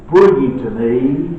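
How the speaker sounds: put-on firm, loud call to bring the boy; commanding. Jesus ordering the boy brought to him, loud and firm. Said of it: "Jesus says".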